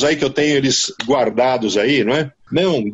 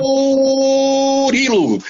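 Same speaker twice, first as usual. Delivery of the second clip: calling out; 8 semitones higher, much slower than usual. Real, not acted. Calling out to colleague.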